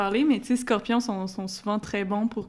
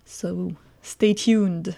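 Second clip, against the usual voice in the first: drawn-out stay tuned; much slower than usual. Acted. Playful sign-off tease.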